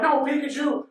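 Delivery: high mock-desperate call; Ash's cry. Boy chasing his Pikachu, high mock cry. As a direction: raise the pitch, calling after a pet. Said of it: "and he's like".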